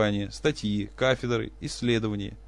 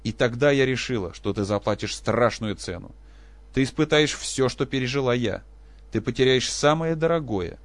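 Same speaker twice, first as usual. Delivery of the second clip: loud, high vengeful declaration; wife drowning out her husband with threats; drowning him out; 4 semitones higher, 7 dB louder than usual. Acted. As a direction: overpower his words. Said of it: "голос женщины совершенно заглушил".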